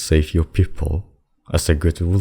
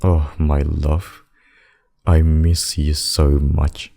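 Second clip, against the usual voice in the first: slow, lingering, loving murmur; tender longing; slower than usual. Acted. Demon reunited with secret lover after kiss, tender longing. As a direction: draw the words out lovingly.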